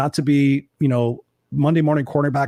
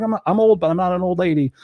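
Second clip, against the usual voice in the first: put-on defiant older woman; 5 semitones higher than usual. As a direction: voice a feisty widow refusing to be old. Retells widow client's defiant words.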